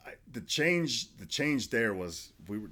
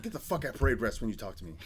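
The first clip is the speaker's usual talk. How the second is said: retold sergeant's order, slightly raised and higher; mild mock scream; 4 semitones higher, 4 dB louder, faster than usual. Sergeant demands parade rest, mild mock scream. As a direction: imitate a drill sergeant chewing someone out. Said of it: "immediately screams at me".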